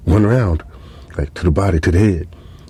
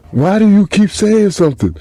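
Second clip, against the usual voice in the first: much higher, louder irritated snap; 13 semitones higher, 4 dB louder than usual. Retold or imitated. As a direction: cut him off, annoyed and high. Nato snapping at him.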